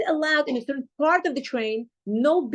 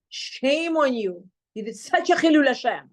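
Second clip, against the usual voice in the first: retold reproach. Retold public scolding by angry passenger.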